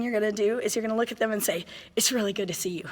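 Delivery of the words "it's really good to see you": sincere greeting. Shown as a demonstration. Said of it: "you gotta mean it".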